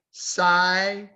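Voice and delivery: "Scientists" broken into three slow, separate syllables. Shown as a demonstration. Teacher counts the syllables for the class, syllable by syllable. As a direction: sound out "Scientists" in three parts with gaps. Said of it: "how many syllables in scientists?".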